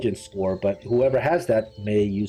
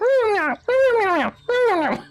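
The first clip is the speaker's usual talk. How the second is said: possessed; 3 dB louder than usual. Acted. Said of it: "deep demonic voice".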